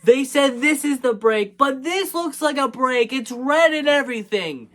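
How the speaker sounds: high-pitched mock squabble; arguing. Hero Boy and Hero Girl disputing the brake, arguing. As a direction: imitate a kid insisting in an argument. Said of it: "is having an argument".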